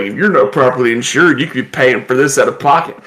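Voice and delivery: brisk insurance ad read, lightly done; disaster commercial announcer. Retold or imitated. Grandson imitating the commercial guy as a quick ad read. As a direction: rattle off the warning like a TV ad. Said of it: "He's just like".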